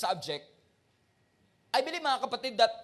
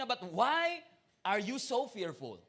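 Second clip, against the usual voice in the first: usual speaking voice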